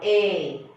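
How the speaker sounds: "A" said as eh, as in red; short E sound. Shown as a demonstration. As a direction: give "A" as the plain short eh sound. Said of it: "So E is taking here".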